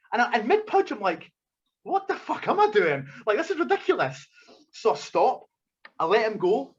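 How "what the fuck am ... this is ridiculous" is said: higher pitch, touch of exasperation; retold disbelief at his own actions; incredulous. Mid-punch, questioning himself, mildly incredulous.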